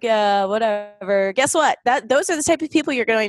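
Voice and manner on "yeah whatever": slow, can't-be-bothered shrug; lazily acted slacker brush-off; mellow indifference. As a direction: drag it out, mildly mock mellow. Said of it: "just mellow and".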